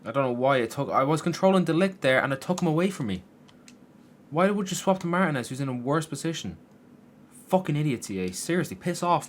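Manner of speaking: high, loud complaining at the game's control switch; angry rant. Real, not acted. Gamer ranting at EA over player switching. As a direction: rage at the game, spitting insults. Game switched his defender.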